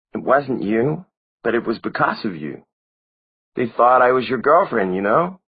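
put-on high young girl's voice; a small girl reproaching him; girlish voice. A narrator's reading. Narrator voices Maureen.

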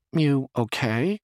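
slow, caring check-in; concerned. A narrator's reading. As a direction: ask gently and slowly, as if worried for him. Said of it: "in tones of concern".

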